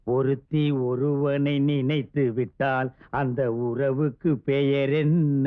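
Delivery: slow, deliberate recital; slow coaxing question. Acted. Husband repeating his question to his new wife, slow and deliberate. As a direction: stretch each phrase out for the listener.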